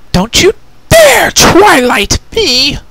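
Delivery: slow, loud, high warning; angry order. Acted. Twilight warns the prisoner, slow and loud. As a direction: drag it out as a stern threat. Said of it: "Twilight Sparkle ordered".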